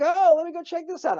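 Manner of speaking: high, playful excitement; mock eager curiosity. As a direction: perk up at the sound of a guitar. Hears guitar by the pool.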